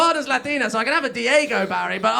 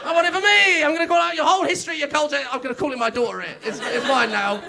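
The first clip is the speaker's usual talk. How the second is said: greedy colonial claim; 3 semitones higher, 4 dB louder than usual. Retold or imitated. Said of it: "You're like".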